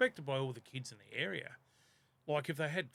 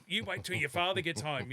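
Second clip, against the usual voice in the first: angry mum; 3 semitones higher, 4 dB louder than usual. Retold or imitated. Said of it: "Mum would get angry".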